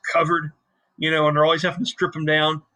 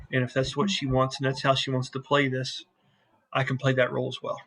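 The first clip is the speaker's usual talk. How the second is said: lightly voiced captain, softer and lower; a calm, scheming ship captain, a touch quieter; Aeolus, sly captain; 3 semitones lower, 4 dB quieter than usual.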